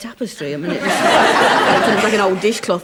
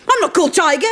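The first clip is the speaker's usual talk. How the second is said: put-on child voice; 9 semitones higher, 4 dB louder, faster than usual. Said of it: "this kid went".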